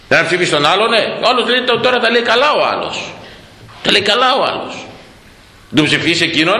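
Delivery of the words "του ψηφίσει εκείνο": ordinary talk, nothing marked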